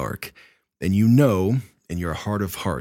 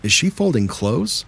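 husband's voice; 6 semitones higher than usual. Retold or imitated. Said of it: "I hear my husband's voice say".

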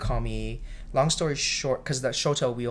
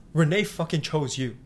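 raised, emphatic imitation of the boss; meant for all to hear; 4 semitones higher, 6 dB louder than usual. Boss turning back to a shy cook, loud declaration. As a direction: project it across the room. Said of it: "He made sure that everybody would hear it".

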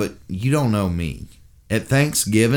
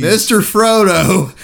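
put-on English accent; 9 semitones higher, 6 dB louder, slower than usual. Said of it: "I can't do the accent".

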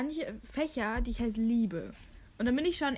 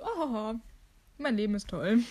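mock cheerful; 3 dB louder than usual. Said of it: "mega gut gelaunt".

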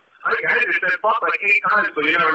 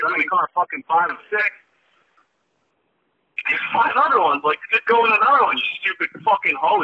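retold rant; 5 semitones higher than usual. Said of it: "I was like".

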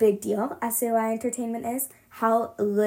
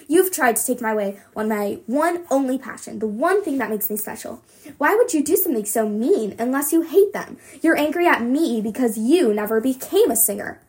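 loud, raised voice, angry accusation; furious accusation; 5 dB louder than usual. Acted. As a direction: lash out at her mother. Daughter accuses mother in fury.

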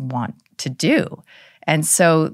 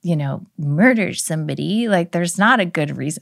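a hint of a whiny daughter; imitating daughter; 3 semitones higher than usual. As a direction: play the indignant kid objecting. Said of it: "I don't know why I'm talking like that".

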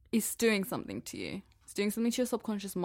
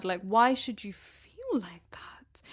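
whispering; slower than usual. Real, not acted. Whispered aside.

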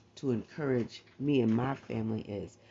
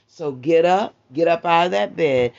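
urgent call; 4 semitones higher, 10 dB louder than usual. Real, not acted. Preacher urging listeners to rise.

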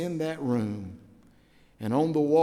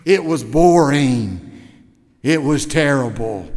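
blunt complaint; 8 dB louder than usual. Retold or imitated. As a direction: drop it flatly on him. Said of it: "she looked and said".

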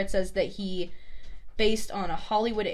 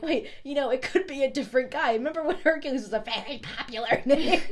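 higher, nervous sidekick babble; sidekick excuse; 4 semitones higher, 4 dB louder than usual. Retold or imitated. Sidekicks stalling while Hades strangles them, pitched up. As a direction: talk fast past the danger, pitched up. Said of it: "they're both like".

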